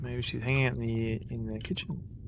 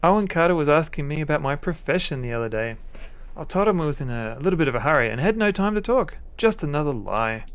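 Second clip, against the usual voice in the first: much higher hammed-up female voice, upset and pleading; upset wife Sarah; 4 semitones higher, 4 dB louder than usual. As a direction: play the crying wife in a high put-on voice. Voices Sarah, still worried.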